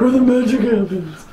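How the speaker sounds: giggling through the words; laughing. Real, not acted. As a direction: laugh while teasing. Teasing about bathroom.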